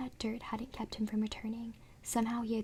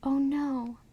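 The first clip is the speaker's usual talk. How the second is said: sharp alarmed gasp of words; startled shout; frightened cry; 4 semitones higher, 6 dB louder than usual. Acted. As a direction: cry out at the sight of him. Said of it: "Lindy cried out".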